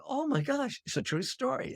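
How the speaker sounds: recalling the moment it sank in, amazed; retold surprise. Realizing the story was true.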